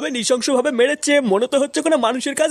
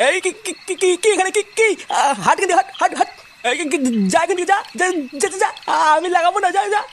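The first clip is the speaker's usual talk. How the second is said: high, stuttering panic; terrified stammering; 4 semitones higher, faster than usual. Acted. Man stammering in terror at the ghost with reversed feet. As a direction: shoo her away while your voice shakes.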